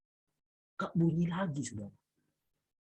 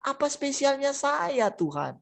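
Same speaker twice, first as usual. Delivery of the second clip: a higher, slow, wondering question to God; wondering plea; 8 semitones higher, 4 dB quieter, slower than usual. Acted. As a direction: ask in awe, drawing it out. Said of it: "yang kau kunjungi aku di sini". (bertanya takjub, pelan dan tinggi)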